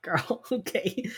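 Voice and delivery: put-on slow, drawn-out incredulous "girl, okay"; sassy disbelief. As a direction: let the judgment hang in it. Reacting to Emily's stinginess.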